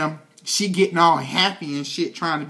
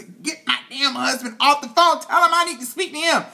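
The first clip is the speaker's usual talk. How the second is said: higher, fast, agitated demand; frantic demand; 6 semitones higher than usual. Acted. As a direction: bark it like a frantic phone order. Acting out Cyrus frantically phoning.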